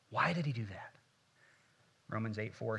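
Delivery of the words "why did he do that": hushed whispered question. Shown as a demonstration. Pastor to congregation, whispering the question.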